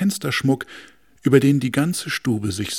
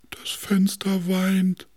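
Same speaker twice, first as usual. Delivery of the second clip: slow tender whisper; soft-hearted sofa; 8 semitones higher, slower than usual. Acted. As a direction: whisper it sadly, slowly. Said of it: "sagte das weichherzige Sofa".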